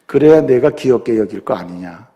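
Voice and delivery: God gently answering the husband; God's reply. Acted. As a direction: speak as God, low and hushed.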